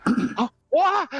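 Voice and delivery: mock surprise. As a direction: play the coworker caught off guard. Coworker surprised by her answer.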